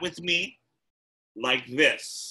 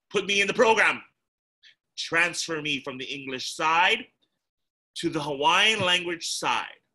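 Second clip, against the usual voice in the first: put-on determined child; 3 semitones higher, 4 dB louder than usual. Child demands principal enroll him.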